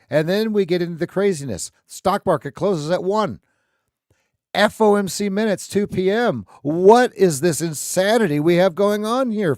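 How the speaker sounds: high, loud, incredulous build; worked-up exclamation. Real, not acted. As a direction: ride high and loud over the crazy schedule. Exclaims at crazy news schedule.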